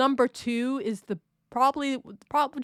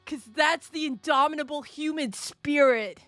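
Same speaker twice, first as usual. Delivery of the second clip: a fired-up shonen hero believing in himself, pitched higher; shonen hero impression; 4 semitones higher than usual. Shown as a demonstration. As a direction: declare it like an anime protagonist, rising to a triumphant finish. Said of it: "That's my best shonen, uh, character impression".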